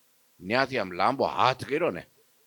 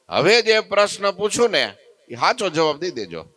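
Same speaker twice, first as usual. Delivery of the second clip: stern ultimatum; 4 semitones higher, 4 dB louder than usual. Acted. Natha gives Maharaj a last warning, stern and threatening. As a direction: lay down a final warning.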